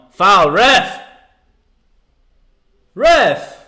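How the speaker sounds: yelling at the ref in protest; pleading with the referee. Real, not acted. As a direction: shout up at the referee, desperate.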